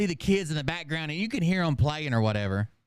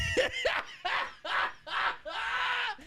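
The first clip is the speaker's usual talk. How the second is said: shrieking laugh, nearly crying; can't get through the story for laughing; high helpless laughter; 4 dB quieter than usual. Real, not acted. Comic cracking up at the cat-girl bit, shrieking laugh. Comedian loses it again.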